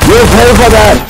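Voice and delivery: high angry yell; angry threat. Acted. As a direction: snarl it as a revenge threat. Yelling at enemy, out of ammo.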